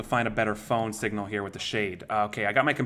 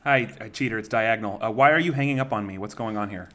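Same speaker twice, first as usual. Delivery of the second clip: female voice changer. Acted. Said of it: "let me use female voice".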